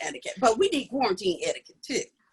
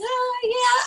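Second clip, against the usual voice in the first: mock enthusiastic; 13 semitones higher, 5 dB louder than usual. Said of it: "I'm like".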